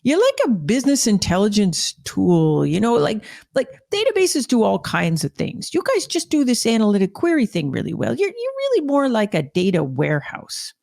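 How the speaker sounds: a hint of the senior guy correcting him; lightly voiced insurance exec. Retelling the executive explaining to the marketer, lightly voiced. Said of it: "He says".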